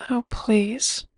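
a whispered, dismissive scoff. A narrator's reading. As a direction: brush him off under your breath.

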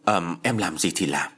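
mild, yielding reply; softened tone. Acted. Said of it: "Hai Tường dịu giọng".

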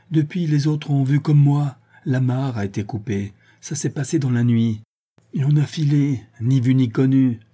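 a sailor, worked up, telling his news; lightly voiced agitated sailor; lightly voiced breathless sailor. The sailor Coréjou speaks.

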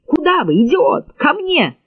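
high, scolding call; angry shout. A narrator's reading. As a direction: snap at him to come here. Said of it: "крикнула Ли".

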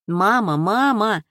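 anguished cry of mama into the phone; tearful calling for mama; desperate calling. Acted. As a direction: call out for mother, straining. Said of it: "надрывалась трубка".

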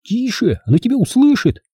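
high, urgent hushed warning; frightened. A narrator's reading. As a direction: shush a friend in mild alarm. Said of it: "испугался Бенджи".

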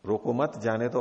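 रोको मत as one unit, then जाने दो; pause after मत. Shown as a demonstration. Teacher repeats how the officer took the order, मत grouped with रोको. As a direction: keep मत tied to रोको, then add जाने दो. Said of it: "उसका अर्थ लिया".

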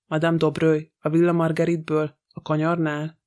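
ordinary delivery, nothing marked

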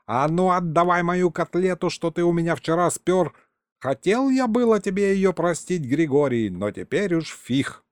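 put-on old man's high-pitched telling-off; yelling. A narrator's reading. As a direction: demand it back in mild outrage. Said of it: "заорал Егорыч".

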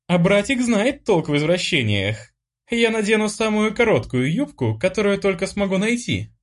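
high, playful sister voice; teasing sister. A narrator's reading. Sister teases her brother about the lessons, high and playful.

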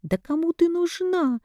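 high, scornful shout; mother yelling at her daughter; contemptuous shout. A narrator's reading. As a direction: hurl the insult back. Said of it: "крикнула я в ответ".

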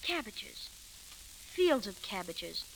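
soft, halting and shy; quiet. Acted. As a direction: murmur it shyly in the dark. Shy man speaks softly at night.

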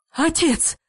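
a grandmother ordering the horses out; coughing shout. A narrator's reading. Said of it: "хрипя, кашляя, кричала она".

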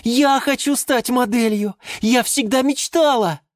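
high-pitched eager outburst; excited cry. A narrator's reading. Geranium begs to become a model, excited cry. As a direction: cry out first, desperate to be picked. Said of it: "вдруг первой закричала герань Антонина".

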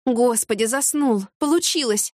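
rising breathless joy, pitch climbing; a gasp of triumph that it worked; excited relief. Acted. Relief that he fell asleep.

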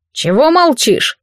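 gruff bark at the father; barked question. Acted. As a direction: snap it out like a village elder. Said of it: "рявкнул на отца". (рявкнуть)

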